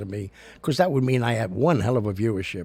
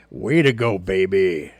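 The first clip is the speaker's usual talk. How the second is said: proud cheer; 3 semitones lower, 5 dB louder than usual. Real, not acted. Praising the rescuing dog.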